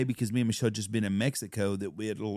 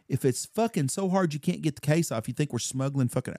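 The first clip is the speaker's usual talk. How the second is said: mildly heated retort, pitched up; retold anger; 3 semitones higher than usual. Man challenging airport searchers over the case, mildly angry. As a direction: retell an irritated challenge. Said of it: "I got fucking pissed".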